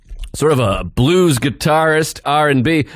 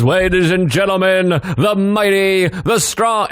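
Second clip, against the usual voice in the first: hype man announcer; 3 semitones higher, slower than usual. Retold or imitated. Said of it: "he goes".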